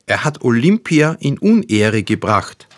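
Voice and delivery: high, loud indignant outburst; crowing accusation. A narrator's reading. Youngest son runs at the old man, crowing indignantly. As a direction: crow it out as an outraged accusation. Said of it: "rannte dem Alten entgegen und krähte".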